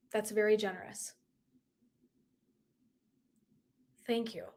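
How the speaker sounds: hushed, barely voiced thanks; almost whisper it, humbled; whispered thank you, moved; soft whisper. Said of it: "And I was like".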